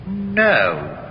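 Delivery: high, startled and defensive. Acted. Jailed actor, startled by the inspector's hint, answers high and defensive. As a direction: caught off guard, blurting it out.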